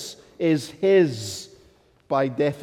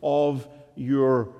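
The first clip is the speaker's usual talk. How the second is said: seraphim praising God; 2 semitones higher, 4 dB louder than usual. Acted. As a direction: proclaim it like angels before the throne. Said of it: "They said".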